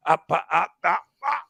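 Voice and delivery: rising yells of up; shouting up. Retold or imitated. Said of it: "The Scott woman's going".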